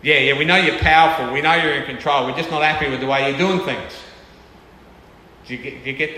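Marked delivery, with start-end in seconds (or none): 0.0-3.9 louder, impatient yeah yeah; mock grumbling at God; grudging complaint. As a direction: brush off God's power, sulking.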